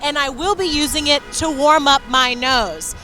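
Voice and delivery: muffled behind a mask; talking through a mask; through a face mask. Real, not acted. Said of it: "I have my mask on my face".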